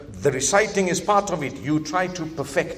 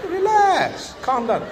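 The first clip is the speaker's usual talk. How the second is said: urging to relax; 5 semitones higher, slower than usual. Real, not acted. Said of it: "It's supposed to be calming".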